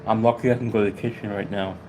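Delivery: winded, catching breath between words; breathless, short of air. Real, not acted. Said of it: "right now I'm out of breath".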